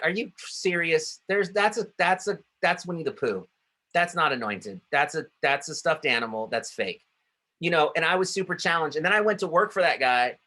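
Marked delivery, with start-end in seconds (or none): 0.0-7.0 higher, mock disbelief at a silly idea; incredulous scoff. Young pastor scoffing at boss's Tigger idea, incredulous. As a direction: scoff like it's ridiculous. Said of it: "and I'd be like".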